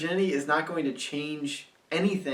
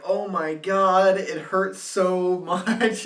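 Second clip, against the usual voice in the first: put-on girlfriend in pain; 3 semitones higher, 3 dB louder, slower than usual. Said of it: "And she's like".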